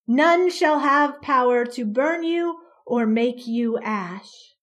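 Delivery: loud, commanding boom; a creature booming over the mob. Acted. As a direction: fill the square with the voice. Creature's prophecy to child.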